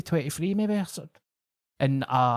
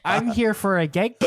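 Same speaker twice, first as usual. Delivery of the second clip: higher, flustered protest, half-laughing; flustered naive young comic; 7 semitones higher than usual.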